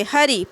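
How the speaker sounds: हरि with light weight on ह; stress on preceding syllable. Shown as a demonstration. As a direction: lean a little on the first syllable of हरि. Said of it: "पूर्व वाले पे". (हरि के पहले अक्षर पर हल्का बल)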